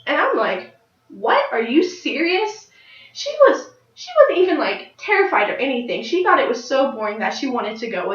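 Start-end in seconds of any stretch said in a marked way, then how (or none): 1.1-2.7 mock disbelief. Her disbelieving reply to the child.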